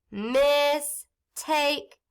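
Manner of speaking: mistake drawn out slowly; stretched blend. Shown as a demonstration. Teacher blending word for class, stretched. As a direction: lengthen the word while blending.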